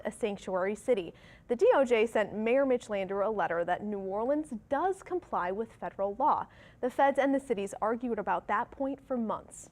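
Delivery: measured TV anchor delivery; news read. Acted. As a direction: read it as a morning news update. Reads the morning news.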